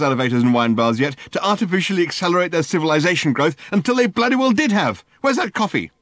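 high, loud, wound-up rant; ranting Ford. A narrator's reading. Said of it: "ranted Ford".

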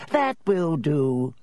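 sharp. Acted. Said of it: "he said sharply".

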